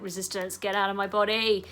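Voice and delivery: mock forceful order to the body; mock exorcism. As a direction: bark it like casting out a demon. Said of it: "You don't wanna be thwacking it and being like".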